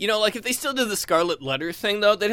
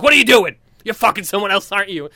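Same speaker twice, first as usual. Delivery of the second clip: jealous accusation; 3 semitones higher, 8 dB louder, faster than usual. Retold or imitated.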